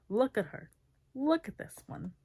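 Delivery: put-on loud drunken shout; drunken holler. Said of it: "he hollers".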